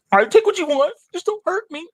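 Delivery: high, pleading squeak; scared farmer. Acted. Frightened Farmer Brown pleads with Tony, high pleading squeak. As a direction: beg the tiger to spare you. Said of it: "Farmer Brown says".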